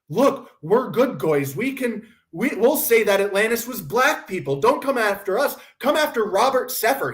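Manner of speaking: put-on, slightly whiny appeal; mock pleading. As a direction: imitate people begging to be spared. Mocks Dan and Jimmy pleading.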